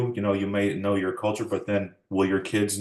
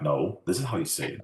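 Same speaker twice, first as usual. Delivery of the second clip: adamant insistence; 3 semitones lower than usual. Retold or imitated. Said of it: "I was, like, adamant".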